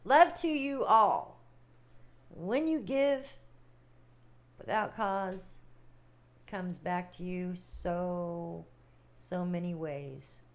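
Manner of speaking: slow, heartfelt blessing; slow and sincere, like a benediction. Real, not acted.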